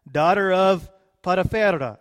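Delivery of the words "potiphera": put-on name in a Spanish accent with rolled R. Preacher reading a Bible name to church, Spanish accent. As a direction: roll the R, Spanish-style. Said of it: "doing that in a Spanish accent".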